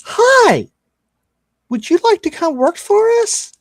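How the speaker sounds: very high, sweet put-on female voice; sultry blonde woman. Blonde woman recruiting the party in a high sweet voice. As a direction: lure them in sweetly. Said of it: "and she's like".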